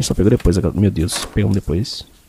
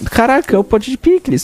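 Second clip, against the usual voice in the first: excited. Real, not acted. Finds the pickle jar.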